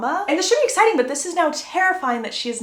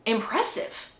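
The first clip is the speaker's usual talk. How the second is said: amazed; 3 semitones lower, 3 dB louder, slower than usual. Retold or imitated. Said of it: "All the Cullens are like".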